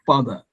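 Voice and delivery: father as "fada", without a weak syllable; deliberately mispronounced father. Shown as a demonstration. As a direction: say both syllables of father fully, with d. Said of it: "I'm gonna pronounce wrongly".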